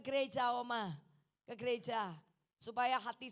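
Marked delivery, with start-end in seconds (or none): none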